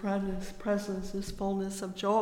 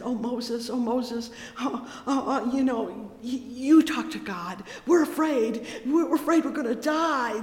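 mock-frightened pleading, higher and louder; imitating fearful Israelites; 3 semitones higher, 6 dB louder than usual. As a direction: plead with Moses like a scared crowd. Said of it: "And they were afraid, and, and they said".

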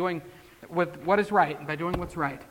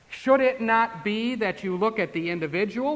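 normal talking voice

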